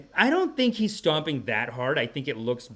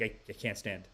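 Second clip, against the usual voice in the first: put-on weak girl; 4 semitones lower, 10 dB quieter than usual. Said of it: "she's like".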